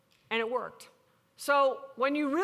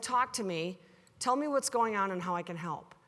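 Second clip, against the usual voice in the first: lower, calm retold invitation; inviting question; 4 semitones lower than usual. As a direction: gently open up the dialogue. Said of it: "by asking it this way".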